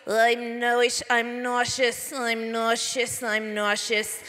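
mild imitation of a queasy nervous turtle, slow; hint of a fretful cartoon sidekick; nervous Filbert. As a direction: whimper the lines like an anxious cartoon turtle, lightly voiced. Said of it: "This is what Filbert sounds like".

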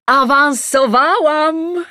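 high, loud and slow announcement; excited. Acted. Mother proclaiming her promotion to the family, excited. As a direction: proclaim the big news.

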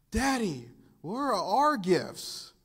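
put-on high, slow, expectant child voice; eager kids. Little kids asking their dad for gifts, high and eager. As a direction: ask it like an eager little kid.

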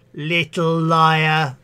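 crowd shouting. Acted. Passers-by jeering at Matilda, slow mock shout. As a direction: jeer it back slowly. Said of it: "they only shouted".

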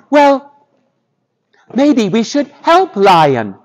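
high, tentative mouse voice; a small mouse gently suggesting; little mouse. Acted. Mouse suggests helping Lion.

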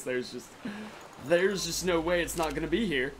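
ordinary talk

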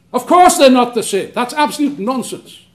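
loud, emphatic indignation; emotional. Real, not acted. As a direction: burst out in real exasperation. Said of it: "excuse me from being, being a bit emotional".

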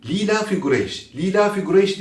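ilafi with its long i cut short; rushed reading. Shown as a demonstration. Quran teacher showing students the careless fast reading, vowels unstretched. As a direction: run through "Li ilafi Kureyş" quickly without stretching. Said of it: "Hızlı okurken içimizden yavaş".

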